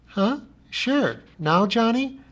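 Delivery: high, eager beast voice; a lightly voiced eager pet; Lummox voiced. A narrator's reading. Lummox answering Johnny about rocks, high eager.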